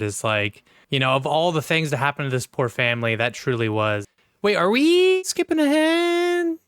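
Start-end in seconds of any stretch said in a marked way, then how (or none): 4.4-6.6 surprised confusion. Real, not acted. Confused interruption mid-discussion.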